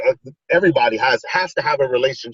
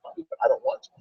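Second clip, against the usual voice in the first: high mock little-girl whine; imitating whiny daughter; 4 dB quieter, faster than usual. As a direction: squeak it like a sulking kid.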